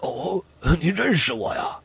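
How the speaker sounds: mildly puzzled, softened question; a touch surprised. Acted. Writer asking the coachman who recognised him, mild surprise. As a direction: ask it with slight, understated astonishment. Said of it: "作家有点诧异地问".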